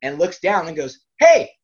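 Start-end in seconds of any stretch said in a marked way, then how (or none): 1.2-1.5 high, loud holler; mom yelling down. Retold or imitated. Mom calling down to the wrestler, shouting high. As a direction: imitate mom hailing someone far off.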